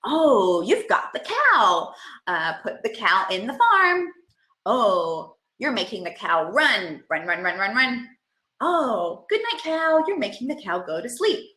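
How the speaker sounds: put-on slow, sing-song narration of the child's play; playful play-by-play for a toddler; parallel talk demo. Shown as a demonstration. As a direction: describe what the child is doing, gently. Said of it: "might be like".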